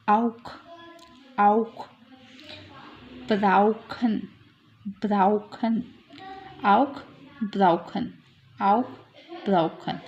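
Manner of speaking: आउक and ब्राउखन with an "ow" diphthong; आओ sound. Shown as a demonstration. Teacher showing the au sound, "ow" in आउक and ब्राउखन. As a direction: open आउक and ब्राउखन out on "ow", each word separate. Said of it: "आओ की sound है ये".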